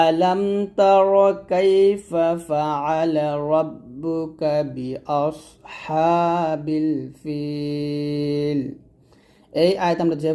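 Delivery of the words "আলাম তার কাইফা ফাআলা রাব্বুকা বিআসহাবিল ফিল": slow melodic recitation, rising on the openings; Quran recitation. Shown as a demonstration. Teacher reciting the verse for students to repeat. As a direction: recite the verse slowly, chanting. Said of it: "আয়াতটা আমার সাথে আবার পড়েন".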